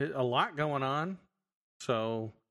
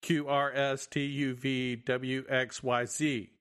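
all in one breath. Retold or imitated. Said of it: "I'm sitting there going".

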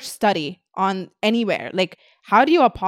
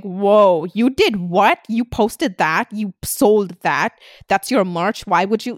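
mock shock, with slow disbelieving questions; mock shocked fans; 3 dB louder, much slower than usual. Followers reacting to something she posted, in mock shock. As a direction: gasp it like appalled followers. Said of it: "people are like".

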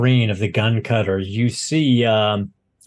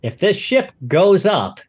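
halting, acted nervous pleading; stammer, then swear loyalty with a touch of fear; terrified pilot. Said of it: "he's absolutely terrified".

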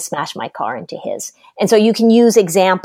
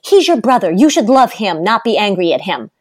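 parental scolding; 2 semitones higher than usual. Retold or imitated. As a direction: imitate a parent chiding a child. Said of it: "one of the things we say".

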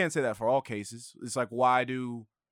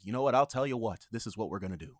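lightly imitated old-time TV patter; a hint of black-and-white era delivery. Shown as a demonstration. Co-host showing how old TV sounded, lightly imitated vintage delivery. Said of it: "It all sounds like this".

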